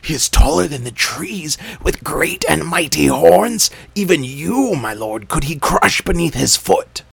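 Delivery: high, loud frightened report; frightened jackal. A narrator's reading. Jackal telling the king of the giant, high and frightened. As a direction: gasp out the horror.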